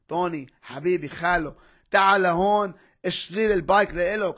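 a loud pleading call in Arabic; loud pleading uncle. Retold or imitated. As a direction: plead with your nephew over the phone, loud. Uncle calling begging to buy bike.

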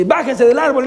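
mock yell up at children; retold shout. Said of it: "les grité y no me hicieron caso".

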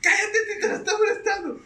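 high loud yell to shut him up; mock shout. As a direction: snap loudly at the panicking intern. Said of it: "Me decía".

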